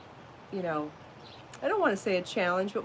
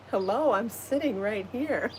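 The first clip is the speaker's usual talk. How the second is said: voicing the bunny; 2 semitones higher than usual. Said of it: "He's like".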